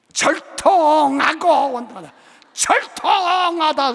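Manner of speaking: high, loud, slow keening of 절통하고 원통하다; loud drawn-out ghost wail; Jeolla ghost lament. Retold or imitated. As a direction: wail the grievance like a Jeolla spirit. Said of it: "전라도 가면".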